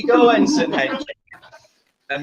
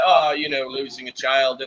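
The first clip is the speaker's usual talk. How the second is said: a faint hint of a Picard-style British accent; semi-Picard accent; 3 semitones lower than usual. Host voicing Riker, faint Picard accent. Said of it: "a semi-Picard accent for Riker".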